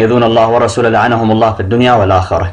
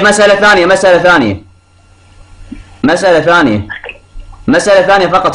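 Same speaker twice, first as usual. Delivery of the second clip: insistent; 6 semitones higher than usual. Real, not acted. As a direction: keep pressing to be heard. Caller insists on another question.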